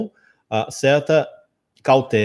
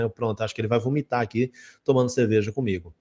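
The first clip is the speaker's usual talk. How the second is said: ordinary talk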